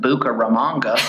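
Bucaramanga in a mock gringo accent; hammed-up gringo pronunciation. Shown as a demonstration. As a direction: say it like an American gringo mangling Spanish. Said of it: "as the common gringo would pronounce it".

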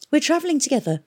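put-on high-pitched young man's appeal; earnest explanation. A narrator's reading. Youth pleading for his friend.

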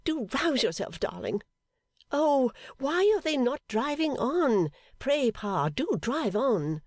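high, tearful, fretful pleading; tearful Fanny. A narrator's reading. Fanny tends fainted Amy, tearful and fretful. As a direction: fuss over Amy near tears. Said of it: "bursting into tears".

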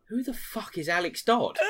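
incredulous mates, half laughing; laughing mock outrage. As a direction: splutter it through laughter. Retold group baffled outburst.

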